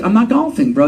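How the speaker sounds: giggling through a mock retort; laughing mock reply. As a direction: laugh while you brush him off. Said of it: "I was like".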